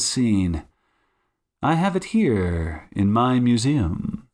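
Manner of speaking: relishing detective, lightly theatrical; Sherlock Holmes. Acted. Detective revealing the egg to suspect, lightly theatrical relish. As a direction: reveal it with savoured emphasis.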